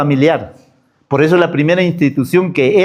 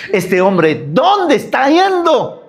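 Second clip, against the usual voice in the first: exaggerated high question; 5 semitones higher, slower than usual. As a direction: voice leaps high and slows on ¿dónde está yendo?. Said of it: "el hombre va a decir". (pregunta exagerada, aguda y lenta)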